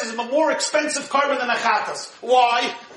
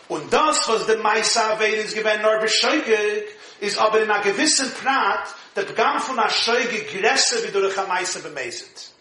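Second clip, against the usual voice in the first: steady recitation of the Yiddish source; reading a text aloud; 3 semitones lower than usual. Acted. Rabbi reading the Yiddish source to his class, recited. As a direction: read the passage out like a study text.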